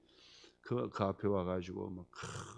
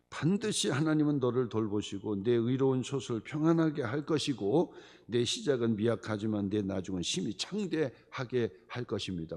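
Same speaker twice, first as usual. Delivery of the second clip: normal talking voice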